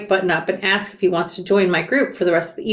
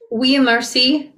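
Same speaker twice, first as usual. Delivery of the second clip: put-on slow French-accented reply; careful attempt at a French accent, drawn out; best French accent; 4 semitones higher, slower than usual. A narrator's reading. American student answering the bartender in her best French accent. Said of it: "I say in my best accent".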